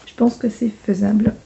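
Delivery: croaky morning voice. Real, not acted. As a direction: voice not warmed up yet. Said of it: "ma voix du matin".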